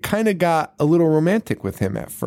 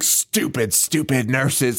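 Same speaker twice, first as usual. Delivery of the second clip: feeble retort; 2 semitones lower, slower than usual. Retold or imitated. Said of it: "That's all she can muster up".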